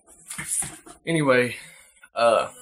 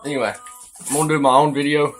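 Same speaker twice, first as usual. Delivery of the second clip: talking with a dip in; words round a lip of tobacco; lip full of dip; 4 semitones higher, 3 dB louder, faster than usual. Real, not acted. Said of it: "Since I've already got a dip in".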